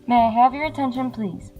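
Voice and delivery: over the intercom. Acted. Airport announcement over speakers.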